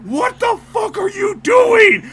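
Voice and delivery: slow, loud, thundering voice from the sky; booming God voice. Retold or imitated. Husband retelling dream, God booming at him. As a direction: boom it down from the heavens. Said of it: "I hear again".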